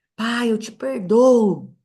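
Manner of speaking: high, loud, slow drawn-out shout.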